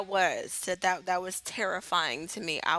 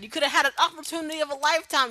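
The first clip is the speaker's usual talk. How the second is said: rising anger; 6 semitones higher, 3 dB louder, much faster than usual. Retold or imitated. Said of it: "Roman just goes".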